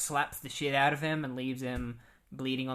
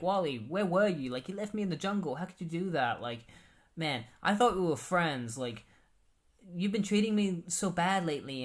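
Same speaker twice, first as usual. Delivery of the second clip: higher, whiny, hurt pleading; hurt complaining friend; 5 semitones higher than usual. Retold or imitated. Chunk complaining to Wally about being left in the jungle, whiny and hurt. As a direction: voice a wounded buddy who was abandoned.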